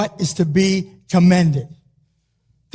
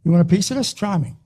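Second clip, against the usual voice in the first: Philly accent; faster than usual. Shown as a demonstration. Athlete answering "why me" with a Philly-accent dare. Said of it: "in your best Philly accent and say".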